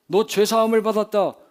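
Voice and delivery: scoffing imitation of a pronouncement; dismissive mimicry. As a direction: toss it off loudly as if anyone could say it. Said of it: "그렇게 말하는 게 뭐가 어렵다고".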